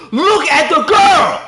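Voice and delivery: high, loud and drawn out; slow emphatic shout. Real, not acted. Streamer demanding viewers watch the female character, shouting. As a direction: hammer every word home. Pointing at gameplay.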